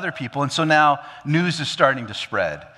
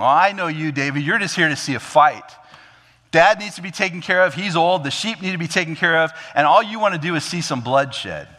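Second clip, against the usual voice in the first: louder, accusing scolding; angry big brother; 5 semitones higher, 4 dB louder than usual. Acted. Big brother accusing David of wanting a fight, angry. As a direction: scold him with mounting irritation. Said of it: "He seems angry because he felt".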